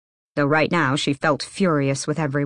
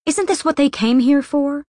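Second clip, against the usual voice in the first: high, louder indignant question; angry; 10 semitones higher, 4 dB louder than usual. Acted. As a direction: fling the question at him in outrage. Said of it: "Nina asked angrily".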